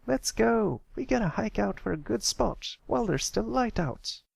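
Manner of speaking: high, eager filly calling out; impatient filly. A narrator's reading. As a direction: hurry your friends along.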